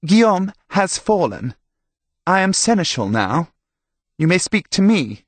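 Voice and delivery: high, loud self-important announcement; calling down. A narrator's reading. Herald, now seneschal, to priest below, calling down loudly. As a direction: proclaim your rank from the battlements.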